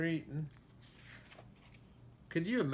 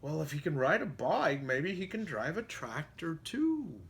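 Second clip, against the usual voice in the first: animals chorus; 3 semitones higher than usual. Acted. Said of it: "they all said".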